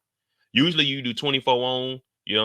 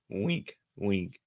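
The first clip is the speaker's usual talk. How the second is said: quiet aside; 4 semitones lower, 6 dB quieter than usual. Pretend.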